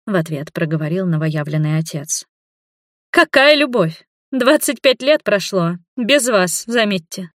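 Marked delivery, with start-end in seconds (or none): 3.1-7.3 snapping back. A narrator's reading. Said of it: "огрызнулась дочь". (огрызается дочь, выше и громче)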